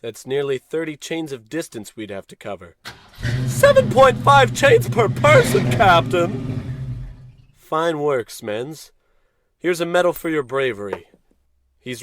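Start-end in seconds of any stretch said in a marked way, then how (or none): 3.5-6.6 very high, loud robotic report; robot reporting to the captain. Acted. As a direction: announce the figure like a calculator machine.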